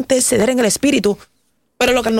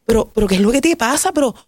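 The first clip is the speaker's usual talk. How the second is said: self-reproach; 6 semitones higher than usual. Retold or imitated. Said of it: "Y yo decía".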